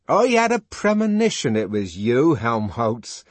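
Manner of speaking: loud, high excited shout; shouting as the door opens; shouted greeting. A narrator's reading. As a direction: call it out eagerly, high and loud. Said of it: "he shouted as he opened".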